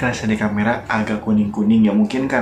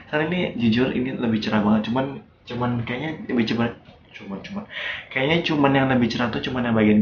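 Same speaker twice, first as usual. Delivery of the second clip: lip held down by finger; talking with lip pulled down. Real, not acted. Seen 0: finger on lower lip pulling it down, exposing teeth, from 2.8s.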